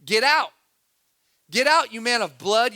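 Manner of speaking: loud, angry cursing at the king; a man cursing a fleeing king, shouting. Acted. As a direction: hurl it like a curse. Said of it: "And Shimei said as he cursed".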